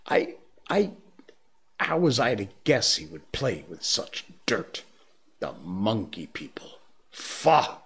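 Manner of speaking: stammered start, then disgusted spit; a bear caught out, sputtering in disgust; flustered old bear. Acted.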